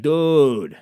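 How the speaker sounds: mildly pleading, stretched-out refusal; reluctant buddy. Acted. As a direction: slowly beg off from a friend's plan. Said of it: "And I'd be like".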